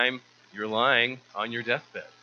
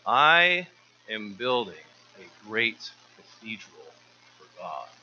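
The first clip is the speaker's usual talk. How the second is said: exclaimed; 5 dB louder, slower than usual. Acted. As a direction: proudly proclaim the cathedral, trailing off reverently. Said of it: "He exclaimed".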